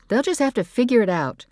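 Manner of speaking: high and loud, brushing it off; dismissive mother. A narrator's reading. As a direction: wave the guests away.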